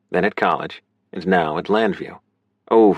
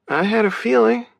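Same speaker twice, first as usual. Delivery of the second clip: high, accepting sister voice; high-pitched, gentle acknowledgement; no censure. A narrator's reading. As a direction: say it without any blame. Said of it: "she said, no censure in her voice".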